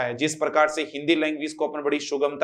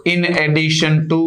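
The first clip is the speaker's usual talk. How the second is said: "in addition to" read slowly and clearly; slow classroom model of "in addition to"; slow demo; 5 dB louder, much slower than usual. Shown as a demonstration. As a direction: lay out "in addition to" word by word. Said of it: "बहुत important rule है".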